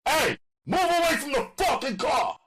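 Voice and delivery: high, loud yell from far off. Acted. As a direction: bark it across the lot. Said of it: "he yelled from a distance".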